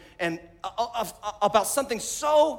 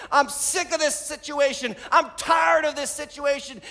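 raised-pitch pleading, mildly desperate; retold plea from someone at wit's end; 6 semitones higher than usual. Hannah praying in the temple for a son, desperate plea. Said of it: "she asked God desperately".

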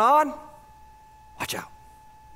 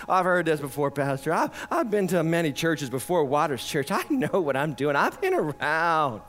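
prideful churchgoer; 5 semitones lower than usual. Retold or imitated. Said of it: "it'll keep you from listening".

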